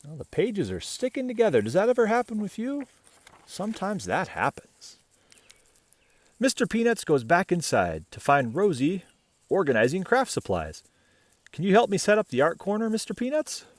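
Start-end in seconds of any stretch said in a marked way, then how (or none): 6.4-13.7 bright, even read-aloud voice; story narration. A narrator's reading. Reading a picture book to children, bright storytelling. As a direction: read the tale gently to little listeners.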